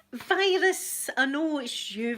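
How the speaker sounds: high, loud delighted name call; excited call-out. Real, not acted. Calling out a viewer's name.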